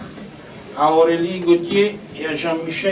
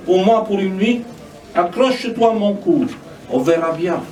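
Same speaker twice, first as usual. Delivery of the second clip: measured lines with falling cadences; spoken poetry reading; poem recitation; 3 semitones higher, 4 dB louder than usual. Acted. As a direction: recite it as verse, pausing between lines. Reads own poem aloud.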